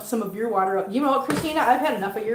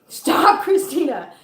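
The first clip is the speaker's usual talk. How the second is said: laughing stop; 4 semitones higher, 4 dB louder, slower than usual. Real, not acted. Laughing at the viewer.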